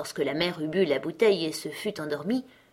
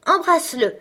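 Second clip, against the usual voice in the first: higher, louder shout; 10 semitones higher, 7 dB louder than usual. Acted. Robber girl ordering Gerda to kiss the pigeon, shouting. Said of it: "cria-t-elle".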